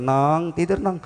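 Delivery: hushed bedtime call; mother's bedtime coaxing. Acted. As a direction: gently urge a child to sleep. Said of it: "anak disuruh tidur".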